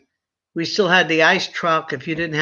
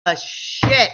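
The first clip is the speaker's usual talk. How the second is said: slow stern mock scolding; father scolding his grown daughter, stern; 3 semitones higher than usual. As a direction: lay down the law like an old-school dad. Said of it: "father scolding daughter".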